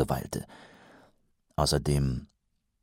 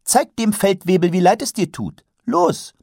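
commanding; 13 semitones higher, 4 dB louder than usual. Acted. Karotte orders the Librarian.

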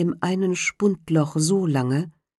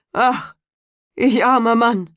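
lamenting carter; 6 semitones higher, 5 dB louder than usual. A narrator's reading. Carter bewailing his lost horses, high lament. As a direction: cry out at losing everything.

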